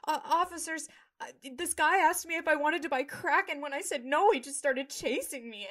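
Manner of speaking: put-on high-pitched innocent white boy act; good little white boy voice. Student lying to campus officers, good little white boy voice. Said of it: "his good little white boy voice".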